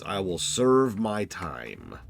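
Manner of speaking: slow, grave declaration; hammed-up solemn vow; mock solemn.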